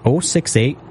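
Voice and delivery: ordinary talk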